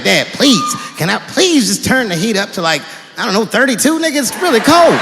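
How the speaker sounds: mock whine to a stingy father; pleading kid. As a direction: beg dad like a freezing kid. Whining to dad about cold.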